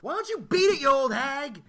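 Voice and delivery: high-pitched indignant outburst; retold shout, starting very high; mock angry yell. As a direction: yell it as a fed-up retort. Acted retort to yelling woman.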